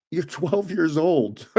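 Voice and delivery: slow retold line tipping into laughter; incredulous, laughing at the end; amused disbelief. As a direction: draw it out, then crack up.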